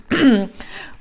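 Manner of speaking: loud choked throat clearing. Real, not acted. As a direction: clear the throat after choking. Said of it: "je m'étouffe". (raclement de gorge étouffé)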